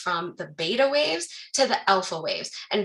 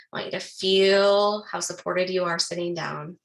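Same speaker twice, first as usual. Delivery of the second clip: guided breathing; 2 semitones lower than usual. Acted. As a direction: guide them gently through each breath. Leads a breathing exercise.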